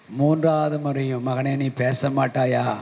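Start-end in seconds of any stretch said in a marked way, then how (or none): 1.3-2.8 lower, slow and grave; voice of the Lord, slow. Retold or imitated. The Lord asks his son a third time, lower and slow. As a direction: ask it slowly, like a patient father.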